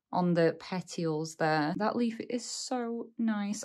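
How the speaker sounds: hoarse, losing her voice; croaky and worn voice. Real, not acted. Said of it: "I'm sorry if I sound really croaky".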